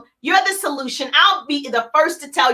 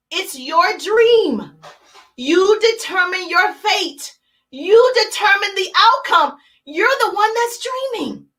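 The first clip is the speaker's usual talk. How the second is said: bear's answer; 3 semitones higher than usual. Retold or imitated. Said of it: "and the bear said".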